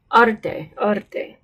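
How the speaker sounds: Arte with a quick tapped r; flapped R. Shown as a demonstration. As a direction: tap the r once in Arte. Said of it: "It's a flapped sound".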